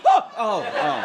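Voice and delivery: high yelped "oh", then easing off; mock scream settling down; startled dog scream. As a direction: imitate a jumpy dog being petted. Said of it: "it'll scream".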